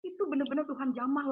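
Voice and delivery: ordinary delivery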